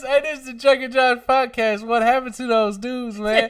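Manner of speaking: high, put-on comedian narration; the comedian narrating. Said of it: "Narrated by the comedian".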